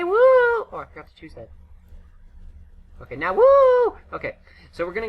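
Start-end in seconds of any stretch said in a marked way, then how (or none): 0.0-0.7 excited whoop. Real, not acted. Celebrating hitting reputation tier. 3.1-4.0 excited whoop. Real, not acted. Celebrating reputation tier again.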